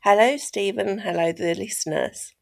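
stuffy, blocked nose from a cold. Real, not acted. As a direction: talk through a head cold. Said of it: "suffering with a bit of a cold today".

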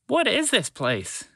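slow, high, wondering question; awed child voice. Acted. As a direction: ask it in hushed awe. Phoebe looks around in wonder.

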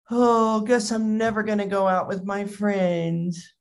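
put-on glum, sighing teen complaint; mock self-pity; sulking kid. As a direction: mope like a disappointed boy. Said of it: "kind of sulking".

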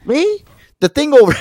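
very high squeaky little voice. Pretend. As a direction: squeak it out in falsetto. Squeaky mock reply.

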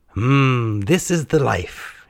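high, slow, luxuriating sigh of words; contented murmur. A narrator's reading. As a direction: savour it, drawn out. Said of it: "he murmured".

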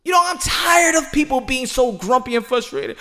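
real irritated yell; exasperated shout. Real, not acted. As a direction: shout your frustration at the grumpy fans. Fed up with grumpy fans.

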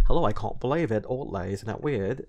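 light put-on British accent. Shown as a demonstration. Actor demos a British accent from acting class. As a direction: try a quick British accent. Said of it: "like, the British accent".

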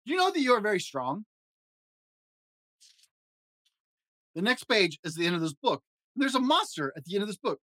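high fuzzy Muppet monster, jittery and fretful; Grover voice. Acted. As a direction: play a nervous, lovable blue monster. Grover voice reading story.

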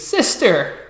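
cheery sisterly hello; delighted greeting. Acted. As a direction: greet your sister with a big smile. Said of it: "she has a huge smile on her face".

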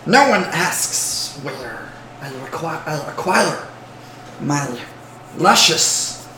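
slow, drawn-out creature voice; Gollum. Acted. Goblin guarding source of his robes, Gollum voice. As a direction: savor each word slowly, like a creature. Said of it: "This is very Gollum".

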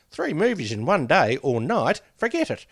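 lightly voiced grumpy old man. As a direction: grumble it like a tired old man. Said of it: "and of course I do it in that voice".

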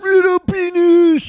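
high, slow mock Korean accent. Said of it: "How's my Korean accent?".

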